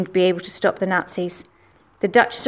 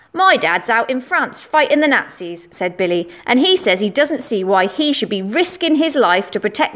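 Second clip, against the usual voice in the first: lightly voiced boastful schoolboy. Schoolboy Billy accusing Anna in the playground, cocky. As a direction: play the know-it-all lad spreading rumours.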